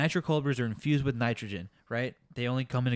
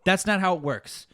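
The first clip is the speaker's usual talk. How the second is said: raised, exasperated rant at a customer; heated retort. Retold or imitated. Barista ranting at absent customer, heated retort.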